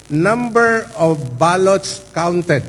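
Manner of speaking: slow deliberate "ballots", spelling it out; slow down and weigh "ballots"; "number of ballots counted" said slowly, "ballots" leaned on; stress on ballots. Shown as a demonstration. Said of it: "I again emphasize the word ballot".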